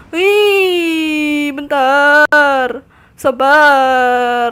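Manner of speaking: loud, drawn-out cry to wait; urgent loud pleading; urgent plea. Real, not acted. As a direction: stretch the words out loudly in game panic. Calling for a moment during game.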